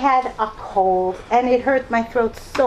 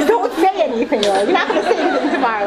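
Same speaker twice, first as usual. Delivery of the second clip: put-on high child voice; 5 semitones higher, 4 dB louder, faster than usual. Son's voice again, begging.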